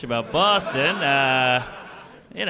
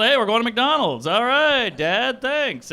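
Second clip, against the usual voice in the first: higher, upbeat mock family exchange; cheerful family banter; 6 semitones higher, slower than usual. Dad and kid off to McDonald's, cheerful. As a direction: play an innocent, eager childhood outing. Acts out a child's McDonald's trip.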